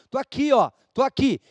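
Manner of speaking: high, loud call for attention; playful callout. Acted. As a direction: wave them over, high and loud. (chamado brincalhão, agudo e alto)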